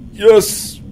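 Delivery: loud triumphant yes; excited cheer. Real, not acted. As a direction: celebrate the hit out loud. Kills enemy, cheers.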